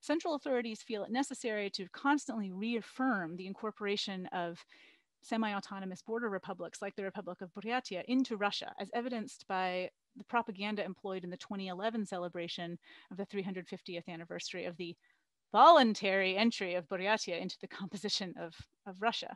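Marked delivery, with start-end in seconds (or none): 15.5-16.4 voluntary punched loud, hard, sarcastic and sneering. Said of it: "the same way I just did it".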